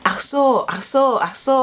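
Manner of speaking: lightly voiced German speaker saying ach so; imitating. Shown as a demonstration. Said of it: "like that".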